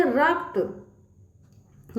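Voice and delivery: रक्त drawn out slowly, half क then half त; teacher slowly modelling रक्त for children; slow model word. Shown as a demonstration. Slowly modelled word. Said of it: "फिर उसके बाद आधा त का उच्चार होगा".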